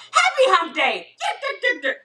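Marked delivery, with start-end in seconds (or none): 1.2-2.0 camel noise. Pretend. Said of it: "That was my camel noise".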